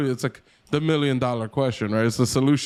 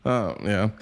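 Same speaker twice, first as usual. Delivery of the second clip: high, laughing plea that he's kidding; husband laughing while insisting he joked; laughing protest; 7 semitones higher than usual. Retold or imitated. Pleading kidding to wife, laughing.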